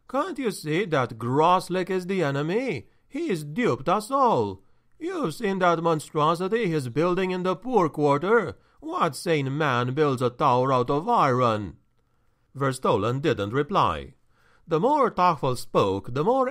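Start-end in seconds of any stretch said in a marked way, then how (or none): 0.1-11.8 anxious steward. Acted. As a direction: press him anxiously. Tachfel urges, anxious.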